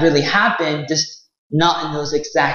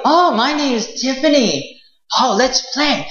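princess voice; 5 semitones higher than usual. Acted. Princess voiced in told story.

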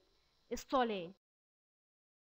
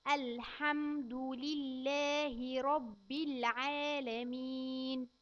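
put-on slow, careful recitation for a child to repeat; much slower than usual. Shown as a demonstration. Teacher reciting slowly for a child to repeat. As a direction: spell out each word slowly for the child. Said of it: "كرر معايا الآيتين".

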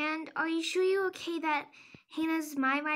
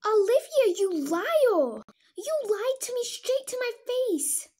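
angry accusation; 5 semitones higher, 4 dB louder than usual. Acted. Lizzie confronts Olivia about lying.

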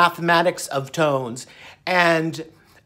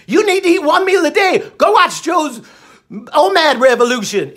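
higher, insistent doctor voice; imitating the doctor; 7 semitones higher, 3 dB louder than usual. Imitating the doctor urging one meal a day, higher. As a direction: push the advice like an eager doctor. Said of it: "He said".

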